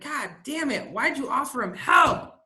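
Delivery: high, shouted frustration at the helper; angry retort. Retold or imitated. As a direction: blurt it out, fed up. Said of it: "it made me so mad".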